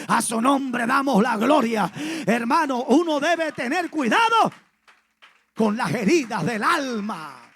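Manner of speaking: loud, insistent preacher commanding renunciation; fiery sermon exhortation, loud; preaching at full force. Acted. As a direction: drive it home from the pulpit.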